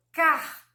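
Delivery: "car" stretched, with an audible pulled R at the end; drawn-out R. Shown as a demonstration. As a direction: isolate "car" and let the final R be heard. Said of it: "Esse puxadinho". ("car" com o R final bem puxadinho)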